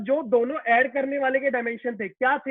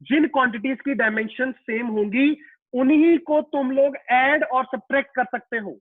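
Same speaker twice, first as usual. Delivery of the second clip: deliberately slow; 4 dB louder than usual. Shown as a demonstration. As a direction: repeat the rule slowly and firmly, a bit louder. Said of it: "मैं बहुत धीरे-धीरे बोल रहा हूं".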